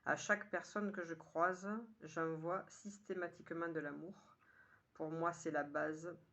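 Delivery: measured poem reading in short, paused phrases; poem recitation. Acted. Poet sharing today's poem with listeners, measured recitation. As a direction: recite it line by line, lifting the opening. Reads own poem aloud.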